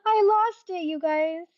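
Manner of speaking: crying laughing. Real, not acted. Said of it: "crying laughing at myself".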